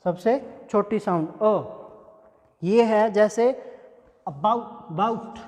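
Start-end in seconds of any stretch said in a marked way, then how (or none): 4.3-5.4 about said very slowly, weak first a; slow about with a barely spoken first vowel; careful pronunciation. Shown as a demonstration. Teacher to students, slowly modelling the weak vowel. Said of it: "इसको बहुत rarely pronounce किया जाता है".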